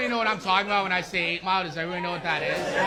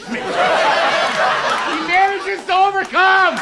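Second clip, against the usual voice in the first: slow punchline; 10 semitones higher, 9 dB louder, much slower than usual. Acted. Punchline drawn out.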